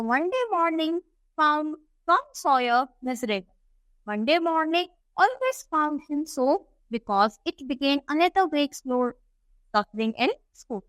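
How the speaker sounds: slow, deliberate English reading; story read-aloud. A narrator's reading. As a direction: read it out slowly for a class. (धीमे-धीमे कहानी का पाठ)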